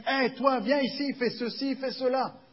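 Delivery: loud, high bossy commands; intimidating orders. Acted. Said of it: "essaye de nous intimider, de nous faire peur".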